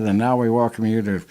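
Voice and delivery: booming vintage radio announcer; old-time radio announcer. Retold or imitated. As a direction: announce it like a 1930s radio host. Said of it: "they would be announcing".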